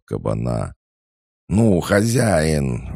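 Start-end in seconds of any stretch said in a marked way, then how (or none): 1.5-2.9 high, drawn-out loud whine; wailing cry. A narrator's reading. Ignored Lina pesters her master, wailing. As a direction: stretch it out as a pleading wail. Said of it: "вновь раздался вопль Лины".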